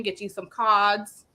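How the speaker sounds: put-on slow, British-accented "cards" with a dropped r. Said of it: "I've been doing this accent".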